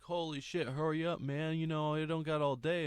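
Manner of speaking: mildly exasperated, imitating a robber in a hurry; impatient robber. Acted impatient robber hurrying him.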